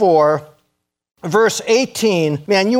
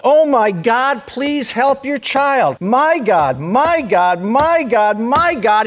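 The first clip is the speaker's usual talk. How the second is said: calling out to God; 4 semitones higher, slower than usual. Pretend. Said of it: "we need to call out".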